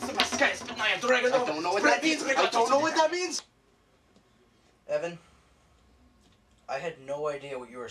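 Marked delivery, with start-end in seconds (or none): 0.0-3.4 put-on Russian accent. Evan rants in Russian.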